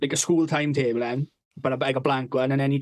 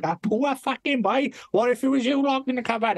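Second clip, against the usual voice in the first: mock pity; 7 semitones higher than usual. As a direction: drag out the pity like a scolding adult. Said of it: "He's like".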